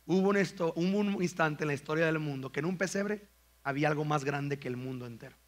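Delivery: mock refined repeat. Shown as a demonstration. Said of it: "¿Es tan fino C S Lewis en sus frases?".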